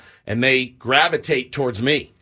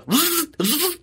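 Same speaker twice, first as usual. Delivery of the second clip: imitated power-tool whir; 13 semitones higher than usual. Mimics pit crew's power tool.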